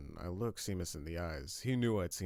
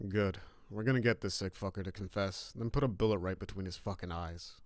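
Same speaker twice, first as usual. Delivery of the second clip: hint of malice; 5 dB louder than usual. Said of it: "with a hint of malice in my voice".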